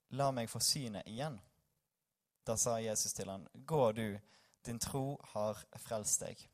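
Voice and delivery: measured Bible reading with deliberate pauses; scripture reading. Acted. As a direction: read the passage aloud in spaced-out phrases. Reads Bible passage aloud.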